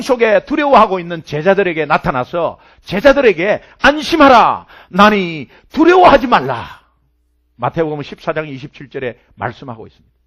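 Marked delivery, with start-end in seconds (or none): 3.8-6.8 commanding reassurance. Acted. Quoting Jesus to frightened disciples.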